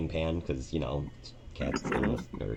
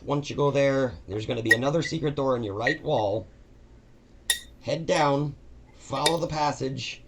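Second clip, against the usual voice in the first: higher, meek and chatty helper voice; a nervous new employee eager to please; timid dungeon cleaner; 4 semitones higher than usual. Acted. Todd explaining his cleaning job to Maggie, high and meek.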